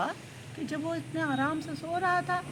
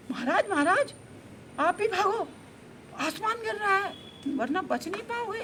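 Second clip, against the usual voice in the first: high-pitched urgent plea; alarmed elephant; 8 semitones higher than usual. Acted. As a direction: warn the king in an anxious, raised voice. Elephant urgently warns the lion king. (घबराई, ऊँचे सुर की विनती)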